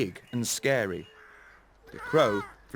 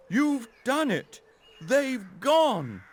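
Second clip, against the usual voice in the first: high, louder delighted voice; delighted scarecrow; 12 semitones higher, 3 dB louder, slower than usual. Acted. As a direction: rejoice with the mice. Scarecrow celebrates.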